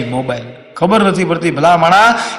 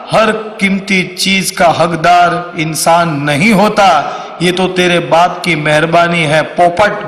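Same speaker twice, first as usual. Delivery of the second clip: slow, measured poetic recital; mock shayari; slower than usual. Comedian recites verse mocking phone owner, slow shayari recital.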